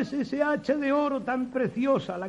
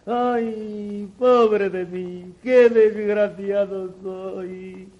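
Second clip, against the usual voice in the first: slow drawn-out wailing; slower than usual. Acted. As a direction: drag out the fake grief. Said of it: "con falsas demostraciones de desconsuelo".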